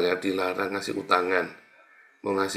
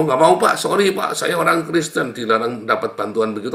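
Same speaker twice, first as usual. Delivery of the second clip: higher, louder mocking imitation of a fool; mock voice of foolish believer; 3 semitones higher, 6 dB louder than usual. Preacher mimicking a believer who refuses aid, mocking. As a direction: parody the proud refusal.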